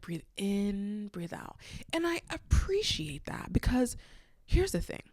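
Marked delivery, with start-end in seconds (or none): 0.0-1.6 soft, soothing breathing cue; calming. Retold or imitated. Auntie guiding caller through a panic attack, calming. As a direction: let it sink softly on the out-breath. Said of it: "Her voice is so calming".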